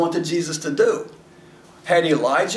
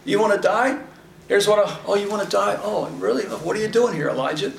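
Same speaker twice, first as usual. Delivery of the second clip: lightly higher, mock teasing; a hint of playful sarcasm from God; 3 semitones higher than usual. God teasing Elijah, mock retelling.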